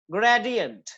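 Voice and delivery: ग्रेडियंट with a stressed "GRAY"; first-syllable stress. Shown as a demonstration. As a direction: lean on "ग्रे" in ग्रेडियंट, let the rest fall. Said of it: "वो first syllable पे होगी".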